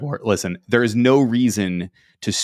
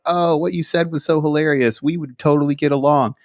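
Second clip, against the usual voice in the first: mock flirty DM; 6 semitones higher than usual. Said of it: "He's like".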